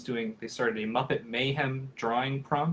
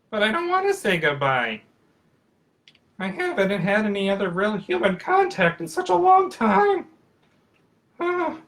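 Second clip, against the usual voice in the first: puppet voice; 9 semitones higher, 8 dB louder than usual. Acted. Puppet protests saying goodbye.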